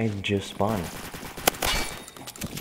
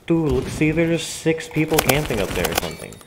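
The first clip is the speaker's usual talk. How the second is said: agitated rant; 3 semitones higher, 5 dB louder, faster than usual. Real, not acted. Complaining about campers and game.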